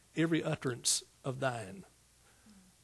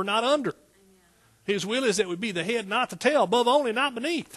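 louder and higher, driving each contrast home; preaching at full force; 6 semitones higher, 4 dB louder than usual. Acted. Preacher rousing the congregation, loud and high. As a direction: build the cry of not under, not the tail.

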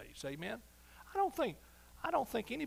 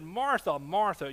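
Martha called out louder, twice; emphatic calling; 7 dB louder, slower than usual. Retold or imitated. Jesus calling Martha to attention, firm and louder. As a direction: call her name firmly, twice over. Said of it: "Twice he said it".

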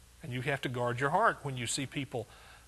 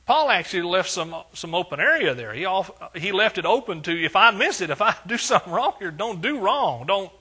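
full-force preaching; 4 semitones higher, 7 dB louder than usual. Acted. Pastor preaching Paul's words to the church, full force. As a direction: thunder the verse to the congregation.

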